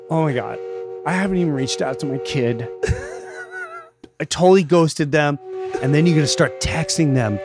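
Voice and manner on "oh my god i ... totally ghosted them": mock sobbing. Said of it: "Now you're sobbing, going".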